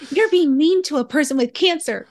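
high, loud and amused; laughing protest. Retold or imitated. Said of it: "I was laughing, like".

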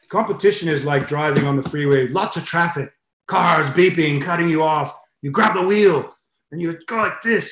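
imitated Russian coach, building in urgency; light Russian accent, pitch climbing with the traffic. Russian coach warning swimmers about competition, attempted Russian accent. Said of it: "I'll try to put my Russian accent".

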